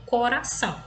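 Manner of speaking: "coração" with a light tapped R between vowels; weak R. Shown as a demonstration. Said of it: "tem um som fraco".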